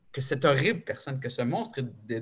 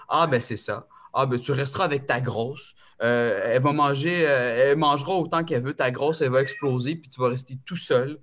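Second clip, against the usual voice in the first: spiteful mother; 5 dB louder than usual. Retold or imitated. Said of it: "m'écrire des vacheries".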